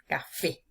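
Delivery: Café with the weight on fé; ca-FÉ, final syllable carrying the voice; stress on the last syllable. Shown as a demonstration. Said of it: "Se carga la voz con mayor intensidad en la última sílaba".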